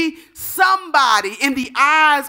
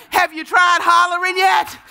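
higher, pressing preacher's holler; raised, insistent preaching cry; hollered challenge; 4 semitones higher than usual. Real, not acted. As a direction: push the question up high at the congregation. Preacher repeats question, building intensity.

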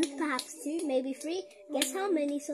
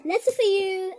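laughing read; 6 semitones higher, 8 dB louder than usual. Real, not acted. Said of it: "that was not a part of the story".

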